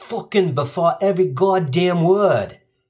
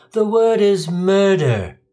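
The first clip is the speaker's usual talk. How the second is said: proper British; 5 semitones higher, 3 dB louder, slower than usual. Retold or imitated.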